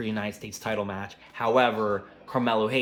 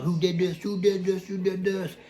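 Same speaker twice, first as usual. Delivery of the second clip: panicked; 8 semitones higher than usual. Retold or imitated. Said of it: "So everyone's like".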